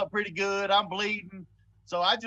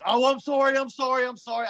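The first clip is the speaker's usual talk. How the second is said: stammering apology; 3 semitones higher, 4 dB louder than usual. Retold or imitated. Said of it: "the dude starts stammering".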